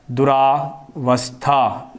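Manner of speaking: दुरावस्था very slowly, syllable by syllable; wrong form, slow. Shown as a demonstration. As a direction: drag out दुरावस्था to show the error. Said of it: "दुरावस्था शब्द नहीं होता". (दुरावस्था गलत, बहुत धीरे)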